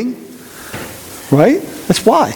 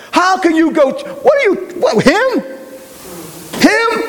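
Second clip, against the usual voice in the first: much higher, outraged disbelief; indignant scandalized crowd; 12 semitones higher, slower than usual. Pretend. Townspeople outraged that Jesus dines with a sinner, squealing high disbelief. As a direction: sputter it like a shocked gossip. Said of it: "what are they saying?".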